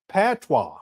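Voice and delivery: patois said slowly as pat-wah, carefully sounded out; careful pronunciation. Real, not acted. Trying patois on the live audience, carefully as pat-wah. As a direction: land the word patois as pat-wah after fumbling. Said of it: "I thought I said patois".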